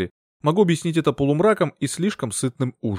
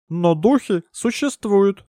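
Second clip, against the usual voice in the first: slow, higher, mysterious assertion; solemn medium; 8 semitones higher, much slower than usual. Acted. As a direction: lean in and reveal a secret truth.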